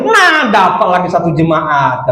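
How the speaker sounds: slow, drawn-out mock glee; gloating devil. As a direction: savour it like a devil winning a soul. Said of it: "ketawa dia". (iblis girang mengejek)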